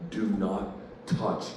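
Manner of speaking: low, slow, soft warning; real quiet. Retold or imitated. Friend warning about the car in the driveway, real quiet. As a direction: imitate a man gone quiet, spacing each word. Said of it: "he gets real quiet".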